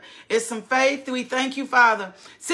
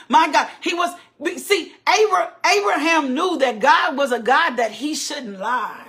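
rising preaching; 3 semitones higher than usual. Real, not acted. Preacher stirring the congregation about Abraham's faith, fervent. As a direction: build the preaching up, full force. Preaching builds to full force.

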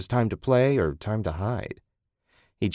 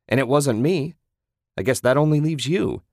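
angry accusation; 6 semitones higher, 4 dB louder than usual. Acted. Ted accusing Susan.

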